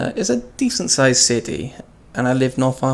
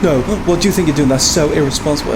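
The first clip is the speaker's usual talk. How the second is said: mock angry Karen; 3 semitones higher, 3 dB louder, faster than usual. Mimicking an angry passenger scolding him, quick mock scold. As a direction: imitate an outraged busybody, rushed. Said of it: "And then Karen was like".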